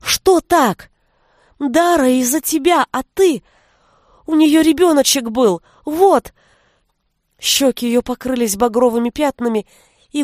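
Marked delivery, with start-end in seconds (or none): 0.0-6.3 rising angry reproach, higher and louder; jealous girl scolds Milosh angrily. A narrator's reading. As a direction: throw the accusation at him. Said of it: "гневно воскликнула Веся".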